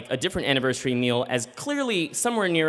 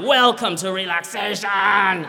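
slow, higher mock Russian accent; gruff old Russian woman welcoming you, Russian accent; 4 semitones higher, 3 dB louder, slower than usual. Spa greeter welcoming guests in a slow Russian accent. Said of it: "angry, old Russian woman".

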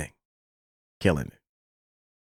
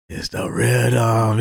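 slow rhythm; 3 semitones lower, much slower than usual. Retold or imitated. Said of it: "He's like".

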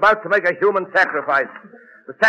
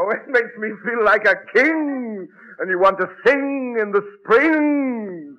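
overacting. Friday hamming up his rubber diet for the strangers, overacting. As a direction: ham it up like a bad actor. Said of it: "I hear Lawton overacting".

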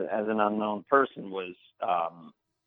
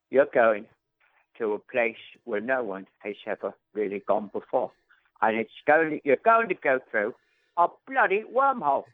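Michael Caine voice. Shown as a demonstration. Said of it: "when I saw him in Interstellar".

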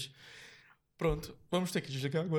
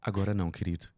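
lower, haughty diva brush-off; diva arrogante; 7 semitones lower than usual. Retold or imitated. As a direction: dismiss him like a diva looking down. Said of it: "uma diva, assim". (diva altiva, mais grave)

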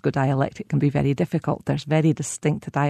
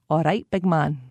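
Glaswegian greeting. Retold or imitated. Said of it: "add on some sort of physical characteristic like".

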